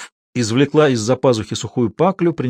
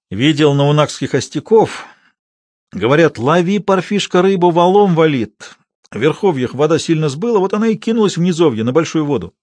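quick gabbled report; rapid patter; 3 semitones higher than usual. Acted. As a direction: rattle it off as a hasty excuse. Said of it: "Проговорив это скороговоркой". (скороговоркой)

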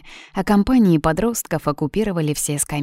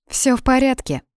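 encouraging smile; 8 semitones higher than usual. Acted. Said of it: "ободряюще улыбнулась я".

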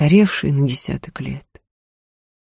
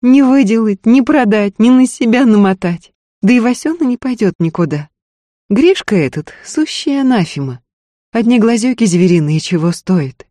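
higher, louder indignant wife; angered; 7 semitones higher, 5 dB louder than usual. A narrator's reading. Wife refuses the hunter's offer for Васёна, angered. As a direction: rail at the whole idea. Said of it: "рассердилась Устинья".

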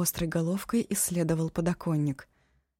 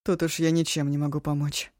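hard; 2 semitones lower than usual. Acted. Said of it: "жёстко отозвалась Ашун".

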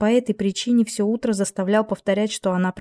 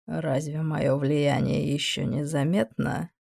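demon voice; 3 semitones lower, 3 dB quieter, slower than usual. Acted. Demon mocks the angel.

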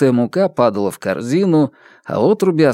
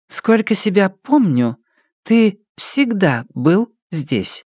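slow, spaced-out higher mother's voice; measured, word by word; 8 semitones higher, slower than usual. Acted. Mother reminding Murray he belongs here, slow and spaced. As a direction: lay each word down slowly and deliberately. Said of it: "с расстановкой произнесла матушка".

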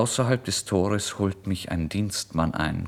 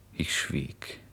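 whispered; 4 semitones lower, 9 dB quieter than usual. A narrator's reading. Narrator falls silent in tense scene.

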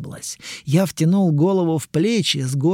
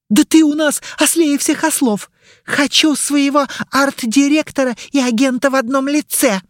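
mocking low voice; 11 semitones higher, 5 dB louder than usual. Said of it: "передразнила меня максимально низким голосом".

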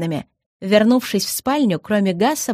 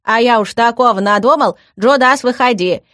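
relieved calling out; 3 semitones higher, 7 dB louder than usual. A narrator's reading. Older brother calls the hidden younger one to come out, relieved. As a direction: call the hidden kid out.

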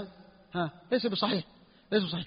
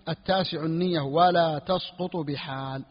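slow dictation; slower than usual. Shown as a demonstration. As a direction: read it slowly, word by word, for students to write. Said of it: "teacher dictates the matn slowly". (إملاء بطيء كلمة كلمة)

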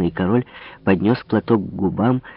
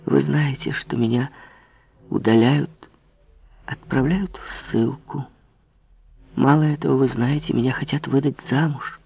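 put-on a young woman's plea, pitched up a little; Marie pleading; 4 semitones higher than usual. Marie complains to Louis of exile, light plea. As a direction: plead gently, lightly voiced.

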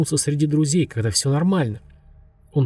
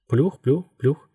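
blade noise imitation; much slower than usual. A narrator's reading. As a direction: echo the far-off beat of blades. Helicopter sound returns on waking.

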